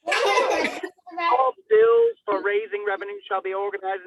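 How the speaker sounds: slow words pushed through a real laugh; can't hold the giggles back mid-sentence; laughing while reading. Real, not acted. Reading the Constitution aloud, laughing through the line.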